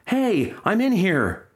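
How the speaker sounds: high, drawn-out acted yell; startled yell. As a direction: yell it high, stretching the words.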